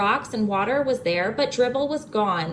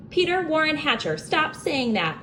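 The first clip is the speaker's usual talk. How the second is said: hollered; 6 semitones higher than usual. A narrator's reading. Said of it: "Mom hollered".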